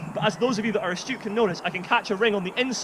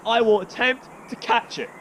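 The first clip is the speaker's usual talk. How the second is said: emphasis on the word "attempt"; stress on attempt. Real, not acted. Juggler warning he may miss the sickle, stress on "attempt". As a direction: lean on "attempt" as the key word. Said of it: "Emphasis on the word attempt".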